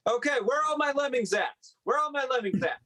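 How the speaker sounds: a hint of a nervous Muppet; Beaker imitation. Comedian calls the lemmings as a Muppet, lightly. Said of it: "That was my Beaker imitation".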